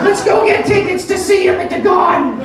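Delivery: high, squealing mock shout; father and daughter suddenly thrilled about a concert, shrieking; excited fan shout. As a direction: scream it like overjoyed fans. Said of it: "They're like".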